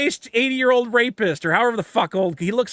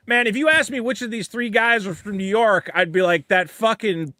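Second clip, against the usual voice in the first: New York guy voice drifting into Boston; Boston accent. Retold or imitated. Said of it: "you turned Boston".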